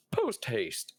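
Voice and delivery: light goose honk. Acted. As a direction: honk it with a laugh. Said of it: "My goose voice is back".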